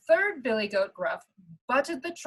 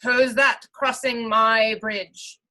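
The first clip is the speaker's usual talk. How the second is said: louder, slow troll call; great big troll voice; 5 dB louder, slower than usual. Acted. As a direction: call it out like a troll under the bridge. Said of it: "the troll called up in a great big voice".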